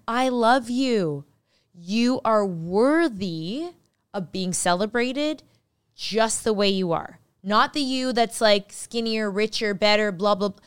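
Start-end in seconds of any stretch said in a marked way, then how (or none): 0.1-7.2 very slow, each word given weight; slow tender mirror affirmation. Shown as a demonstration. Host showing listeners how to speak to the mirror, slow and tender. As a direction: say it like you mean it to yourself. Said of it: "said to yourself in the mirror".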